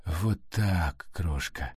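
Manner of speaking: soft, dropping low at the end; gentle, quiet comforting; soothing. A narrator's reading. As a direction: reassure tenderly, voice sinking. Soothing a person just freed.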